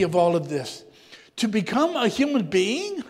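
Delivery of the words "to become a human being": higher-pitched, incredulous question; mildly stunned disbelief, rising at the end; astonished. Acted. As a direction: react as if jaw-dropped at the absurdity. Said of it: "their eyes wide and their jaws dropped down".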